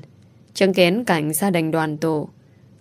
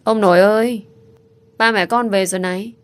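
put-on light, eager child calling out the news; little boy calling grandpa in delight; joyful child call; 3 semitones higher, 3 dB louder than usual. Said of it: "Lâm Vũ vui sướng kể lể".

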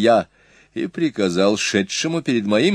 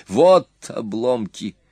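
berserk rage; 3 semitones higher than usual. Acted. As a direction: hurl threats in a fury. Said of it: "В ярости закричал джангизец".

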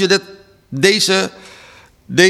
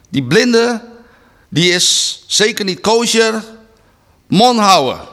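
scornful hush; 4 semitones higher than usual. Acted. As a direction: look down on the beggar, then snap shut up. Crowd dismisses the blind beggar. (minachtend, hoger, eindigend in luid bevel)

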